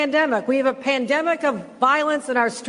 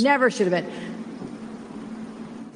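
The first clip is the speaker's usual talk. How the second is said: solemn hush; 5 dB quieter, much slower than usual. Real, not acted. Solemn slow delivery.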